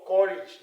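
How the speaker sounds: courage ending in a short I, "KOR-idge", loud. Shown as a demonstration. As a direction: hit courage loudly as "korridge". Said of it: "it's called co".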